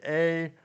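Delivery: "a" said as a Canadian eh, like "ay". Shown as a demonstration. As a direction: say "a" as the Canadian tag "eh". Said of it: "making fun of me when I say".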